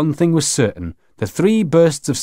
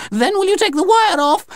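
very high alien begging; high-pitched pleading question; desperate plea. Acted. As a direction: ask frantically, pitched right up. Alien aunt begs for release.

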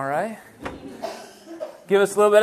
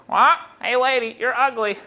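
parrot voice; 2 semitones higher than usual. Acted. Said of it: "parrot go".

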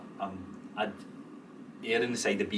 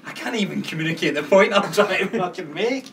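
exasperated; 8 semitones higher, 7 dB louder than usual. Retold or imitated. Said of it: "I found myself that I was like".

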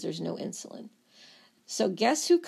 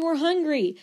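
screaming cells; 7 semitones higher, 3 dB louder than usual. Acted. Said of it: "they're still screaming".

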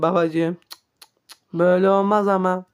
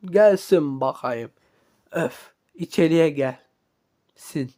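low boss voice; 5 semitones lower than usual. Acted. Boss summons someone in.

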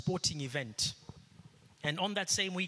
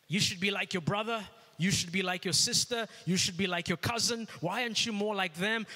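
nagging parent; 4 semitones higher than usual. Retold or imitated. Pastor voices a parent comparing his child to siblings, nagging. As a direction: press the child with each comparison.

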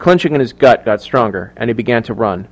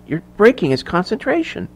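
soft, high-pitched plea; higher, quieter, imploring; hushed pleading; 8 semitones higher, 6 dB quieter than usual. A narrator's reading. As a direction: plead with her under your breath. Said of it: "Emily pleaded with Mary".

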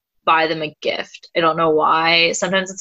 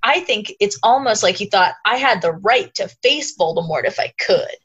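a hint of Mike's calm knowing tone; Mike impression. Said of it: "you delivered that whole thing in your Mike impression".

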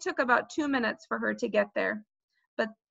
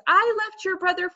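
higher, mildly angry scolding; raised voice; 7 semitones higher than usual. A narrator's reading. Mother blames Peter for Fudge's fall, raising her voice. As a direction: scold him, slowing on the last sentence. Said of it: "My mother raised her voice".

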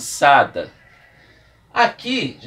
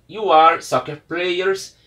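slow model reading; 2 semitones higher, 4 dB louder, much slower than usual. Shown as a demonstration. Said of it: "teacher models the phrase".

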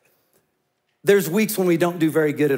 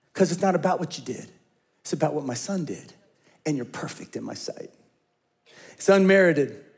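usual speaking voice

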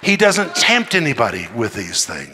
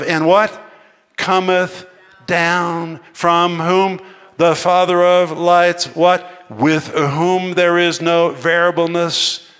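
call and response; 3 semitones higher, slower than usual. Real, not acted. Preacher quizzing his congregation, excited. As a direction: prompt the crowd to answer.

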